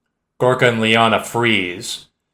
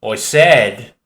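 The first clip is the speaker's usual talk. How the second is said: irritated and louder; 6 dB louder than usual. Acted. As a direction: repeat it with annoyance. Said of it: "the voice speaks louder, irritated".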